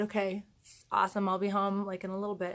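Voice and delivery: softly controlled, calm reply. Retold or imitated. Mom answering news of chicks at home, very calmly. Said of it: "very calmly said".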